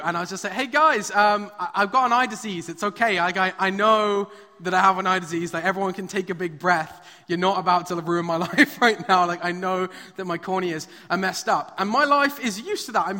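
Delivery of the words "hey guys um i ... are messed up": louder, laughing reassurance to the staff; loud calling out. Retold or imitated. Preacher retelling how he called out to the worried optometrists, loud and reassuring. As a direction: call across the room to calm them down.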